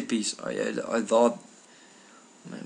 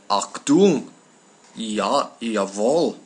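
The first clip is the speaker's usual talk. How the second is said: mock British-accented German, punched out word by word; comic German in an English mouth; Brits speaking German; 6 dB louder, much slower than usual. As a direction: imitate English people barking German. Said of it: "English or British speaking people when they talk German".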